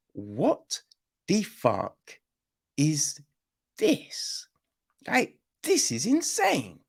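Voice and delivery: climbing up in mock disbelief; mock baffled. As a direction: act stunned by the story. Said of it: "he's just like".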